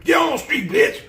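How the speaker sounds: high, loud mock pimp shouting; loud hammed-up pimp yelling, high pitched. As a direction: play the pimp screaming at his girls. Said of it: "kept yelling at them".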